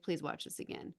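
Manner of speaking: hushed mock plea; pleading whisper. Asking her boyfriend to rewatch the scene, hushed pleading whisper. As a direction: whisper it like a begging aside.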